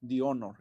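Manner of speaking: "The honor" with "the" said as "di" and a silent h; "di onor"; English pronunciation demo. Shown as a demonstration. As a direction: say "the" as "thee", then "honor" with no h. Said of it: "en pronunciación empieza con O".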